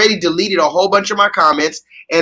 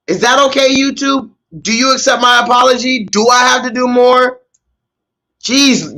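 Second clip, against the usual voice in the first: whiny, higher, teary mock plea; sniffly put-on sob voice, begging; after a mock ugly cry; 3 semitones higher than usual. To YouTube after faking an ugly cry, whiny mock begging. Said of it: "YouTube, I will ugly cry".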